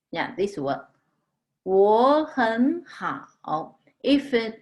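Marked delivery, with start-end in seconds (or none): 1.6-3.8 我很好 very slowly, 我 and 很 both rising as second tones; both third tones changed. Shown as a demonstration. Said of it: "change both of them to second tone".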